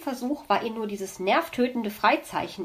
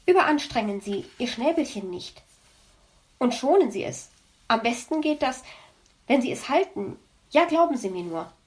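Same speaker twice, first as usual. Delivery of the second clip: mocking fox. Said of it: "wird er dann sagen".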